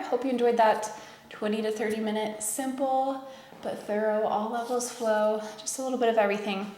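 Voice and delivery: losing voice, slightly hoarse. Real, not acted. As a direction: talk through a tired, hoarse voice. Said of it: "I'm losing my voice".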